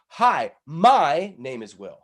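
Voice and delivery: slow, loud, stress on "my" in "Hi, my name is Will."; wrong emphasis. Shown as a demonstration. Coach showing a wrong emphasis on "my". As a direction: lean hard on "my" in "Hi, my name is Will.". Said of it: "Does that sound good? No".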